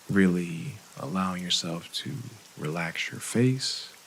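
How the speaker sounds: calm, unhurried meditation guide, leaving long pauses; guided meditation. Acted. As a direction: ease listeners gently through breathing and relaxing.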